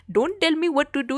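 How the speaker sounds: playful Indian-accent imitation; Indian accent meme. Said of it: "yang Indian tu kan".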